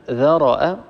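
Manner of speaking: ذرأ with a full, heavy ra, said slowly; heavy open ra. Shown as a demonstration. Tajweed teacher showing a student the heavy ra, slowly. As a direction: draw out ذرأ so the ra sounds thick. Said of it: "الراء هنا مفتوحة".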